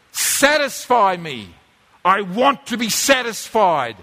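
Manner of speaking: slow, lightly voiced inner craving; demanding craving. Preacher voices the craving inside you, slow mild demand. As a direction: stretch it out as a hungry demand.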